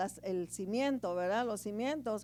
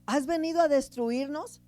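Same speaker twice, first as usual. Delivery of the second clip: moderately raised scripture quote; mild acted cry; 2 semitones higher, 4 dB louder than usual. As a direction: call it out, lightly acting a possessed man's protest. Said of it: "gritaba y decía".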